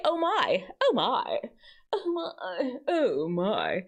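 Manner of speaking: lightly played Southern lady; a hint of a Southern woman fretting. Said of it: "That sounds like a Southern woman".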